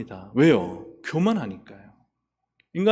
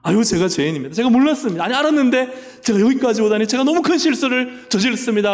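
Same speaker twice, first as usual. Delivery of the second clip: hammed-up penitent plea, climbing higher; mock repentance; 6 semitones higher, 3 dB louder than usual. King admitting his sin to the priest, hammed-up penitent plea. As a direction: pretend to beg forgiveness, rising in pitch. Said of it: "즉각 회개하고 잘못을 인정하시겠습니까".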